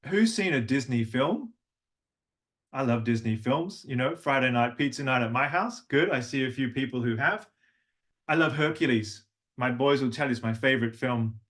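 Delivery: ordinary talk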